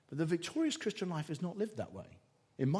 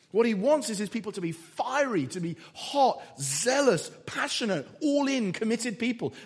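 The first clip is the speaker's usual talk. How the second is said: a little louder, driving each word home; shouty preaching; 4 semitones higher, 4 dB louder than usual. Real, not acted. Preacher urging the church to zeal, a little louder. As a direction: press hard on fiery, zealous, all in. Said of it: "I know I'm being shouty".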